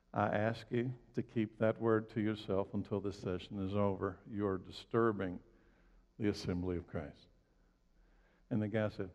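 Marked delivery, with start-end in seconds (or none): 0.1-7.3 imitating a preacher's composed, softened request; unruffled, measured reprimand; calm rebuke. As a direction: lower and quieter, correct without anger. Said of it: "very calmly, never got mad, never got upset".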